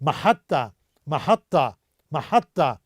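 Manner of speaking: "महत्ता" with a doubled, held t, ma-hat-ta, falling at the end; pronounce like me. Shown as a demonstration. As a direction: model "महत्ता" with a long double t. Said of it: "आप मेरे ही तरह pronounce करें". ("महत्ता" में त को दबाकर दोहरा बोलें)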